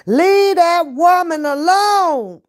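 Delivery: high, slow drawn-out warning; mock stern warning. Partner's text read aloud, teasingly stern. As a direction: stretch it out like a teasing scold. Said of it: "he'll text me on my phone".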